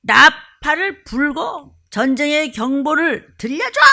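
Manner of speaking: slow, ringing command; slow urgent call to sound the alarm; God's command. Retold or imitated. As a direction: proclaim it like a trumpet call. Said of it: "그래서 그냥".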